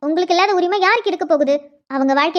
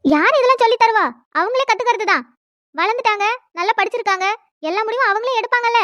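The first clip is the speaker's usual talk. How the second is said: higher-pitched, needling comeback; indignant retort; 3 semitones higher than usual. Acted. Answering the elder about who teaches the young, indignant. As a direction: throw the question back at them, pitch raised.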